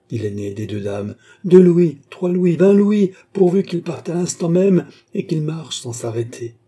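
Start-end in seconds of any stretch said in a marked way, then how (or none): 1.4-6.6 high, loud, impatient bidding; urgent insistence. A narrator's reading. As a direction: pile up the offers, desperate to leave. Lady impatiently raising her offer.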